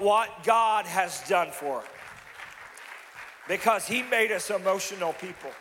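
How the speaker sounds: rousing preaching. Real, not acted. Preacher praising men who get emotional about Jesus, rousing. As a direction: build into loud, emphatic preaching.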